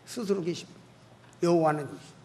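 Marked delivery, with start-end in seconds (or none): none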